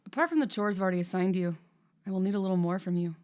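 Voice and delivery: quick, lightly Irish-lilted employer voice; slight lilt. Acted. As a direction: give it a faint Irish lilt. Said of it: "a little lilt to his voice".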